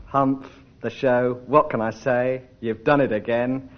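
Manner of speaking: insincere praise. Acted. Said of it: "I could be whitling to you after the show".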